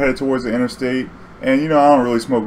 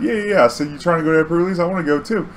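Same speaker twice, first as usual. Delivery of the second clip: eager insisting; 7 semitones higher, faster than usual. Retold or imitated. Eager driver insists he goes too.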